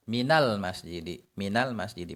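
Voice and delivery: minal said with an a before masjidi; fatha linking. Shown as a demonstration. Teacher shows the exception with min. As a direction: join min to masjidi with a short a. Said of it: "nunnya diubah menjadi fathah".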